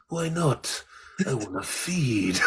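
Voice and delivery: slow, laughing Jake quote; Jake's line. Retold or imitated. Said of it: "And he says".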